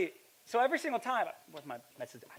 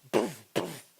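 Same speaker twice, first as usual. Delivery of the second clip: short puffed crash noise; imitated car bump. Preacher mimicking his car getting hit, imitated bump noise. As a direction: puff out a quick thud.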